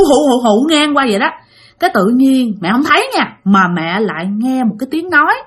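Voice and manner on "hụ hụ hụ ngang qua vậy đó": wind howl imitation. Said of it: "mẹ thấy gió thổi hụ".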